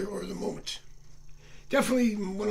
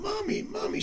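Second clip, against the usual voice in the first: put-on much higher, eager boy's call; boy running back in to his mom, calling out; child calling mom; 11 semitones higher than usual. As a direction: shout for mommy like an excited little boy. Kid runs back calling mom.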